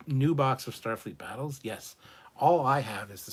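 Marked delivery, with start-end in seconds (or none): 0.1-1.6 eager, rising question on "new box of Starfleet Battles?"; excited rising echo of "new box of Starfleet Battles?"; surprised. Real, not acted. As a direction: perk up in disbelief at the offer.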